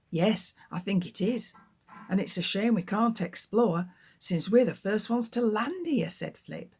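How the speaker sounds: lively storybook read-aloud; reading to children. Acted. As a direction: tell the story to a class of children. Author reads her book aloud.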